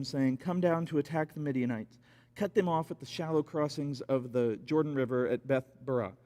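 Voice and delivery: low, measured Bible reading; scripture reading. Acted. Preacher reading Gideon's battle to the church, measured. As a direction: read the passage to the congregation.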